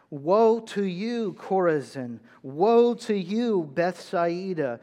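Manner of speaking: measured pulpit reading; scripture reading. Acted. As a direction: read it like a solemn proclamation. Reads scripture with weight.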